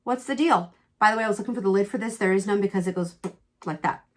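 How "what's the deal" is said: what jumps very high, then runs on loud and higher; shocked disbelief. Retold or imitated. Retelling her shock at the mother-in-law's insult, loud and incredulous. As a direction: replay the moment the news hit you. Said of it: "I was a little bit shocked".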